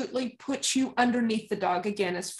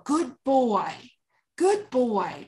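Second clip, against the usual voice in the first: calm praise; much slower than usual. Shown as a demonstration. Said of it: "you don't get excited".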